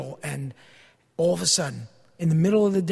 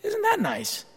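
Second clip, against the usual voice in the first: sarcastic; 12 semitones higher, 6 dB quieter, slower than usual. Real, not acted. Sarcastic remark on faulty detectors.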